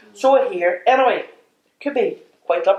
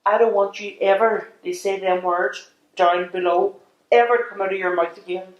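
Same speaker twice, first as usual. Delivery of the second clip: mock-stern condition; 4 semitones lower than usual. Lays down her one condition.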